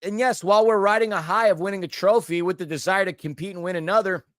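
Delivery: talking with bad hiccups. Real, not acted. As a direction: push through the hiccups. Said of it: "These hiccups are getting pretty bad".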